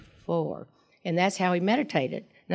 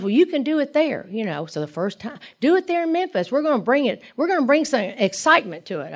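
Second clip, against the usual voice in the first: higher, eager pep talk; fired-up push; 6 semitones higher than usual. Retold or imitated. Lee urges her to bring excitement to Memphis, eager and high. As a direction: talk her into it with rising enthusiasm.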